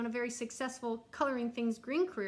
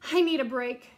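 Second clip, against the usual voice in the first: exasperated plea; 7 dB louder than usual. Acted. Blue crayon worn out.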